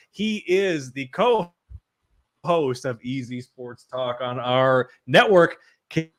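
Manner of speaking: slow drawn-out host intro; announcer voice. Acted. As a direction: announce each word slowly.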